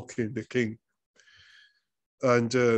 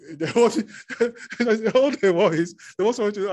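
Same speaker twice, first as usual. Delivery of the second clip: higher, louder whiny child imitation; mock sulky child; 8 semitones higher, 6 dB louder, faster than usual. Preacher imitating a sulking child to the congregation, whiny. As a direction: play a sulking kid wanting attention. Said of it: "doing his mouth like this".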